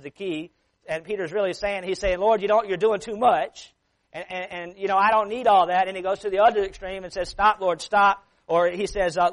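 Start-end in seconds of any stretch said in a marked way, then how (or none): 2.2-8.2 mock protest. Voicing Peter telling Jesus stop.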